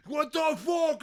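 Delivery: high, loud shocked yell; startled shout. Retold or imitated. Crowd reacting to the shotgun blast, shocked shout. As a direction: jolt up in disbelief. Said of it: "Anybody was like".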